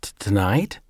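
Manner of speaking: halting, stuttered start; stammering. Acted. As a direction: stumble over the word in shock. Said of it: "Jake stammered".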